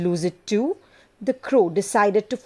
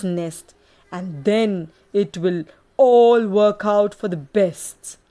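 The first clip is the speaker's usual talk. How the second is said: a lightly voiced sly fox, a touch louder; cunning fox; 4 dB louder than usual. Fox tells the crow how to trick the snake, lightly voiced sly fox. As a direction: advise like a cunning fox with a secret plan.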